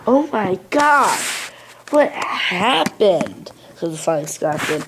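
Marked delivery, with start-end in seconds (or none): 0.0-3.5 high, alarmed exclamation; acted shock, raised voice. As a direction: cry out on finding a friend wrecked. Scotsman finds crashed James.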